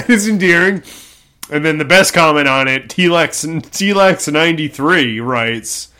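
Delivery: normal talking voice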